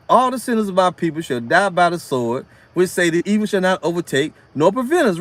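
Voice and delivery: low, measured Bible reading; scripture reading. Acted. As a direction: read the verse with solemn weight. Reads scripture aloud.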